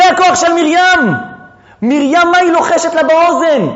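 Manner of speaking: high, sustained exclamation; impassioned cry. Real, not acted. Teacher to class on Miriam's power, crying out passionately. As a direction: proclaim it high and insistent.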